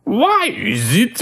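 high strained villain try; laughing through a failed impression; attempted Krang. Shown as a demonstration. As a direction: reach up into the cartoon villain. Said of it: "trying to do that".

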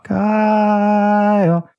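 high, long held name; imitated pestering little sister; sister's nagging call. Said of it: "it was always something like this".

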